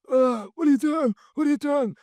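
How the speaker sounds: squeaky high what are you doing; high bewildered protest. Retold or imitated. Dazed lad to the arresting officer, high bewildered squeal.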